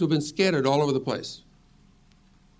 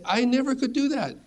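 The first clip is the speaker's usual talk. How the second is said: doubting believer; 10 semitones higher than usual. Retold or imitated. Voicing a fearful believer.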